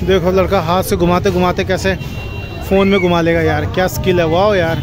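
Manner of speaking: loud admiring wah; amazed. Real, not acted. Vlogger watching a boy's hand trick, loudly amazed. Admiring a street performer's skill.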